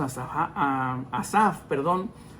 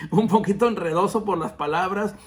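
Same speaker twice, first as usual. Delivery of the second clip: laughing; 3 semitones higher, 4 dB louder than usual. Real, not acted. Joking that the lesson is confusing.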